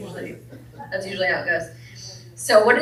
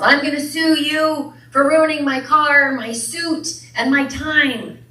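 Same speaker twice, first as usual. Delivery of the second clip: loud, higher angry yell; lawyer yells; 7 semitones higher, 6 dB louder than usual. A narrator's reading. Lawyer yelling at the man after the crash. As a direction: threaten to sue at full volume. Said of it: "And the lawyer yells".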